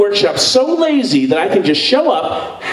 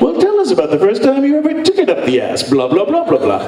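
interviewer voice; faster than usual. Retold or imitated. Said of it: "So I would be like".

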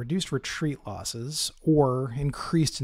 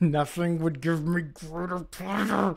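sarcastic; 4 semitones higher, slower than usual. Acted. Sarcastic gracious reply, laughing.

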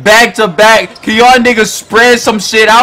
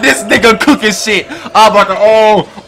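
words broken up by real laughter; laughing; 2 semitones higher than usual. Real, not acted. Gamer cracking up at his teammate's play, laughing. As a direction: laugh through it in disbelief.

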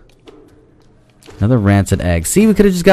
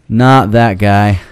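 slow emphatic; much slower than usual. Shown as a demonstration.

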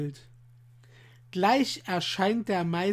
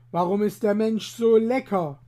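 confectioner's remark; 5 dB louder than usual. Acted. Confectioner voiced.

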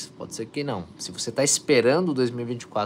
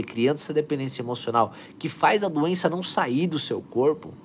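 ordinary talk

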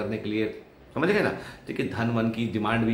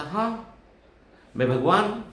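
God's voice; 10 semitones higher, 3 dB louder, slower than usual. Retold or imitated. God reveals himself.

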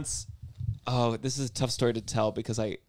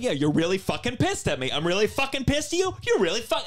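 mock anger; 7 semitones higher than usual. Shown as a demonstration. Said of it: "if we get mad".

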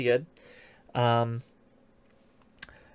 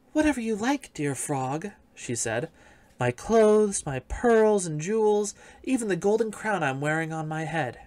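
high, eager princess voice; 5 semitones higher than usual. Acted. Princess pleading with the frog, high eager voice. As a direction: pitch it up, offering everything. Princess offers her treasures.

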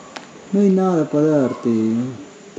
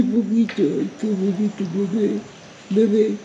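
voz de bebé; 6 semitones higher, 3 dB quieter than usual. Real, not acted. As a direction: coo at the little one in a sing-song. Hablando con cachorros de animal. (voz aguda y cariñosa para el animalito)

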